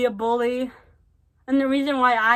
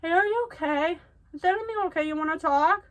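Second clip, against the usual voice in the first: gentle check-in; 5 semitones higher, faster than usual. Retold or imitated. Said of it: "if somebody would have asked".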